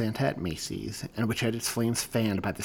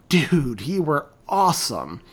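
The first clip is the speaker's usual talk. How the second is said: excited; 5 semitones higher, 7 dB louder, slower than usual. Acted. Friend bounding over excited.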